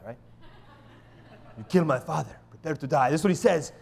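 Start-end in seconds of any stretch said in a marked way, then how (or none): 1.6-3.1 put-on lightly done Spanish-accented avenger; a hint of a Spanish accent, vowing revenge; Inigo Montoya. Pastor quoting the film swordsman, light mock Spanish accent. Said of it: "Inigo Montoya".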